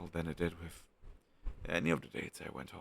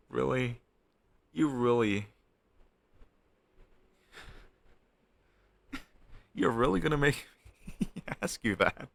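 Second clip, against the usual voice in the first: louder and higher, laughing through the words; laughing disbelief; 4 semitones higher, 6 dB louder than usual. Real, not acted. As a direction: laugh it off, half-scandalised. Laughing disbelief at being made to ask.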